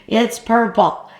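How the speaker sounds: laugh-tinged disbelief at the color; incredulous repeat; amused surprise. Real, not acted.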